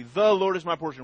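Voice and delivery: THE leaned on, falling through the verse; stress on THE. Shown as a demonstration. Asking what that one word says, stress on THE. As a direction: put the weight on "The". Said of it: "What does that one word, "the".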